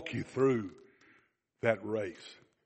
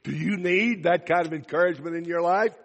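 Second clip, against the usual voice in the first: louder repeat; 4 semitones higher, 5 dB louder than usual. Shown as a demonstration. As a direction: stress on need, louder and higher to wake them. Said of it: "the rest of you are sleeping".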